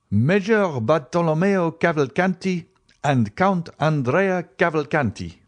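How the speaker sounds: high, ringing servant's announcement; formal announcement. A narrator's reading. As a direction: call the names out to the room. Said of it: "announced Baptistin".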